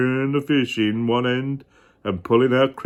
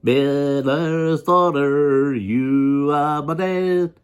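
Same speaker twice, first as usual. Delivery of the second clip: sly little man voice; much slower than usual. Acted. Little man claims his price.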